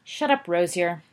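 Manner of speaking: snarled. Acted. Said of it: "snarled Sirius".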